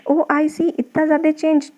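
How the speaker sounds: lightly acted child's surprise; surprised child. Teacher voicing a child who sees nine become six, mildly surprised. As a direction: play a mildly amazed kid. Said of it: "वो बहुत surprise हो रहा है".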